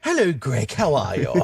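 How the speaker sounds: lightly put-on stereotyped English accent. Showing a friend the similar-but-different accent, put-on English voice. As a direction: greet him in a mock English accent. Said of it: "when I do that accent".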